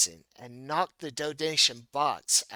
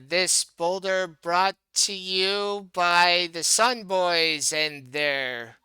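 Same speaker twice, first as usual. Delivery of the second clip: announcer voice; 4 semitones higher, 4 dB louder, slower than usual. Acted. Mock arena sponsor announcement.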